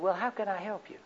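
softly voiced, gentle offer of help; calm and relaxed. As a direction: ask it softly, putting her at ease. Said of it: "as calm and relaxed as I could".

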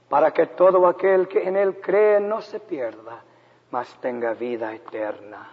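lightly imitated mother reciting scripture in Spanish; mother's sweet reading voice. Preacher recalling mama reading scripture to her little boy, sweet reading voice. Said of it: "sweet voice of that little mama".

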